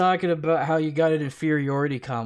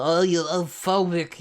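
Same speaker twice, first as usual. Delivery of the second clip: mock accusation; 4 semitones higher, 4 dB louder, slower than usual. Mocking the other man's accusation.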